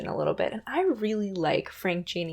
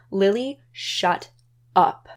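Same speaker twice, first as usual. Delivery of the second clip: snapping; slower than usual. Retold or imitated. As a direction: drag it out then bark up. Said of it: "she says".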